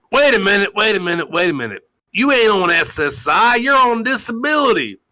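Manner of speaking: lightly voiced nagging wife; a hint of a scolding wife; mock wife voice. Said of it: "she's like".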